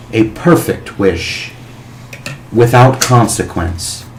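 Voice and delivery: slow, deep ancient dragon; booming dragon voice. Acted. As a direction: speak as a vast old dragon, slowly. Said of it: "a, a booming, deep voice come from this dragon".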